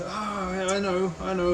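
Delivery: a hint of character voice, recalling something; lightly put-on voice of someone remembering; Harry John. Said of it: "think of a good voice for him".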